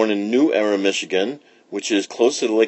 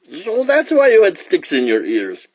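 higher, lightly voiced amused lion; 9 semitones higher, 3 dB louder than usual. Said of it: "laughed the lion".

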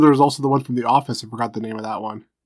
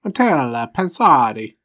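put-on Italian accent; 3 dB louder, slower than usual. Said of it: "Let's get my Italian, uh, accents out there".

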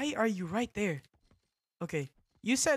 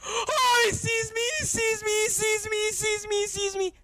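high-pitched wail of panic; real panic; 12 semitones higher, 5 dB louder than usual. Real, not acted. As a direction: repeat it frantically, high and loud. Spotted by game enemy.

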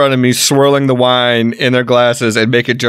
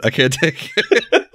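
laughing helplessly; 3 semitones higher, 4 dB quieter, slower than usual. Real, not acted.

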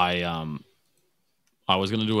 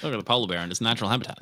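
quick, higher mock wildlife narrator; nature documentary; 4 semitones higher, much faster than usual. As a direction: rattle it off like a nature host. Mock zoo nature commentary.

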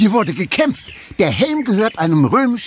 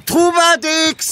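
long drawn-out shout of a name; stretched far-carrying call; 8 semitones higher, slower than usual. Acted. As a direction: call into the forest, slowly. Am besten rufen wir ihn.

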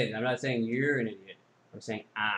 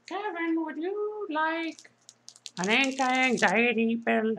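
high, slow robot voice; deadpan machine offering help; 13 semitones higher, slower than usual. Acted. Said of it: "talking like a robot".

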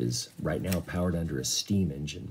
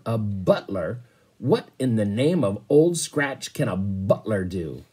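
roar; 4 dB louder than usual. Acted. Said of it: "the captain roared".

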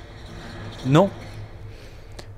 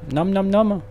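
hungry monster munching, voice pitched up; nom nom chomping; 6 semitones higher than usual. Retold or imitated. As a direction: gobble it like a starving beast. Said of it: "il a faim, il fait nom". (mâchonnement de monstre affamé)

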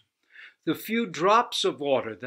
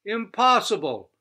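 laughing; 7 semitones higher, 9 dB louder than usual. Acted. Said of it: "laughed a goddess".

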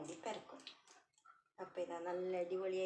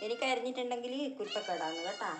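mock scolding pet; 4 semitones higher, 5 dB louder than usual. Real, not acted. Scolding cat over food.

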